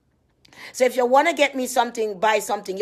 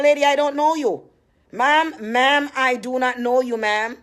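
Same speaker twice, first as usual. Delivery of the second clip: raised, insistent protest to a caller; firm rebuff; 4 semitones higher, 4 dB louder, slower than usual. Retold or imitated. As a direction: push back at the caller, loud and higher. Retelling her rebuff of caller.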